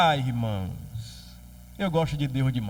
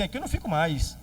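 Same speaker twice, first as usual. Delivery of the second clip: indignant Jonas; 3 semitones higher than usual. Acted. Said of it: "como quem diz assim".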